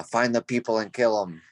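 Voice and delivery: lightly voiced deep goblin; a hint of a low goblin growl. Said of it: "make a really deep goblin voice".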